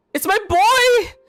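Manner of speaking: thrilled, shrill, very high excited screaming. Reacting to a game character appearing: excited screaming. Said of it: "Stop screaming".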